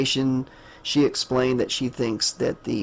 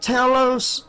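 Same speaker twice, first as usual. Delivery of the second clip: higher-pitched mock scream of a name; retold dying scream; 11 semitones higher than usual. Author retells the character's death, imitated scream of a name. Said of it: "he's screaming out".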